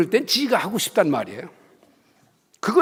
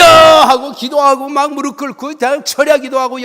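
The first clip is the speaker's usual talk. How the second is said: fervent preaching; 5 semitones higher, 9 dB louder than usual. Real, not acted. Preacher's fervor building after shout.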